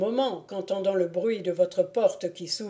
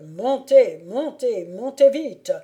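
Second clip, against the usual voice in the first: louder, insistent repeated urging; urgent plea; 2 semitones higher, 7 dB louder than usual. A narrator's reading. Lady begging the lord to climb up, urgent. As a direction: press them to hurry, voice rising in bursts.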